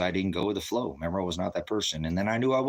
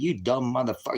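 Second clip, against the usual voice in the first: raised, higher-pitched angry retort; retold angry insult; 5 semitones higher than usual. Man retells confronting a cop, angry. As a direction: fling an insult in retold anger.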